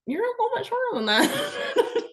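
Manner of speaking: very high, squeezed through laughter; laughing retort. Retold or imitated. Woman retelling telling visitor he's shorter, laughing. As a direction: retell the remark while cracking up.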